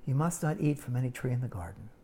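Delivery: hushed, sly mock disbelief; whispering serpent. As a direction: whisper it like a scheming snake.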